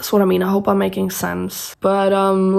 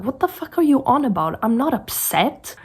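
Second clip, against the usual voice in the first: higher-pitched retort of disbelief; upset protest; 5 semitones higher than usual. Retold or imitated. Answering people who keep saying she is angry, upset. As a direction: act out a defensive denial. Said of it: "then I sound even more upset".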